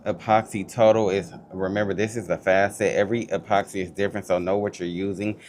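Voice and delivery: muffled voice through a face mask. Real, not acted. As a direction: talk muffled behind a mask. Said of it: "I'm sorry if I sound muffled or something, but I have a mask on".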